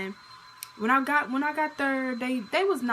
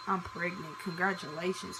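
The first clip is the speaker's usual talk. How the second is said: shocked murmur; 2 semitones lower, 5 dB quieter than usual. Retold or imitated. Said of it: "it just shocked me".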